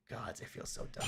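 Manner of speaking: soft, self-reproaching whisper; deflated whisper. Real, not acted. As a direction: murmur it to yourself, embarrassed. Deflated aside about own mistake.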